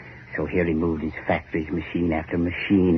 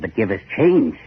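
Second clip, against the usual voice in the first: louder pleading demand; workers' cry; 3 semitones higher, 5 dB louder than usual. Retold or imitated. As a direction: hurl the demand out. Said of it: "they said".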